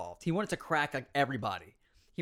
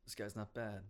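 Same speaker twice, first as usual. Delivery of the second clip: anime rival voice; 5 semitones higher, 17 dB louder than usual. Retold or imitated. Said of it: "anime meme where... he's like".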